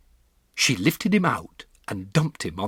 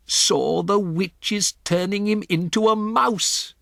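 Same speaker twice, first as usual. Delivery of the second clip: higher, slow, grave and firm; grandmother's voice; 11 semitones higher, 6 dB louder, slower than usual. Acted. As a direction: deliver the shocking truth plainly. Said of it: "my grandmother said".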